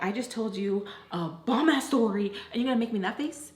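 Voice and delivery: mildly annoyed mimicked complaint; annoyed friend. Voicing the friend's tone at her face, annoyed. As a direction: imitate an annoyed friend, lightly. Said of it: "like, annoyed".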